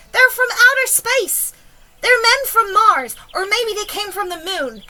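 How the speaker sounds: high, loud crowd cries, easing at the end; excited shouting. A narrator's reading. Onlookers guess at the visitors' origin, shouted. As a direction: call out wild guesses, stretching the words. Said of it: "they shouted".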